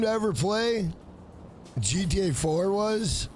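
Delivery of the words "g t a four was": slow, puzzled repeat of "G T A four was?"; puzzled re-read. Real, not acted. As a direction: catch your own slip and repeat "G T A four was?" slowly in doubt. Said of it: "G T A four was my G T A game".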